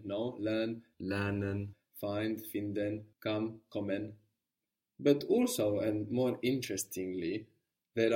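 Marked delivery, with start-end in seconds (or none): 0.4-4.1 slow paired words with "lernen", "finden", "kommen" ending in -en; careful English-German word pairs; English then German pairs. Shown as a demonstration. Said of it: "sticking E N on them".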